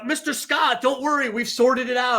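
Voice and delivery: hammed-up McCoy sounding pleased with himself; imitating McCoy. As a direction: breezily assure Scotty it's handled. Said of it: "he's like".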